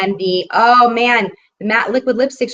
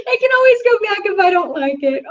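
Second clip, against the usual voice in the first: much higher, sing-song reassurance to herself; playful high repeat; 11 semitones higher than usual. Pretend. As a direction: bounce it up high, teasing yourself. Same line repeated, playful.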